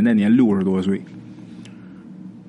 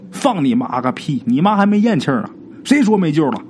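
scolding; 4 semitones higher than usual. Retold or imitated. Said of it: "就骂".

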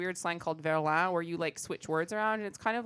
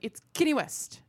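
higher-pitched imitated announcement; retold eager announcement; 9 semitones higher, 4 dB louder than usual. Imitating a coworker revealing who is coming in, eager announcement. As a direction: announce the big name with a lift on Kenny.

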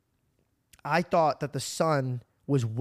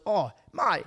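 slow, put-on silly voice, higher and louder; mock friend voice; 5 semitones higher, 5 dB louder, much slower than usual. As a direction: drag it out like a goofy caricature of a friend. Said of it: "he doesn't speak like that".

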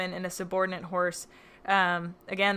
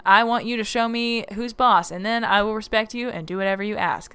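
sneering panto villain; 2 semitones higher, 4 dB louder than usual. Retold or imitated. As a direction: ham up a cackling villain. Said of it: "he's like".

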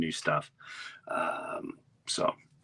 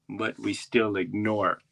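slow-motion guide, trailing on in a daze; dazed tour guide; slower than usual. Retold or imitated. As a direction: drone it slowly to an unlistening boat. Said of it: "it was like slow motion".

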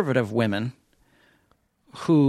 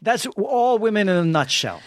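high mock voice; 8 semitones higher than usual.

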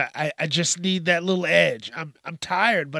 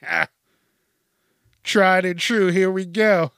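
eager; 4 semitones higher, 7 dB louder than usual. Retold or imitated. Acted self quote, loud.

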